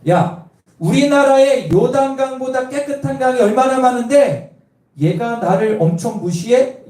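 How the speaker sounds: a hint of an angry commander; fuming general. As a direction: act out the insulted general, lightly. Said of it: "열받은 거예요".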